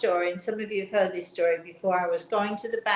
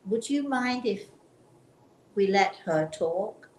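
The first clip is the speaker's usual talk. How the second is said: gentle request. Retold or imitated. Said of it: "very nicely and very gently said".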